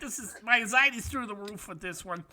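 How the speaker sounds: lightly voiced anxious old man; mock kvetching worrier; Saul Rosenberg. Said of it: "you sound like Saul Rosenberg from a prank-call comedy act".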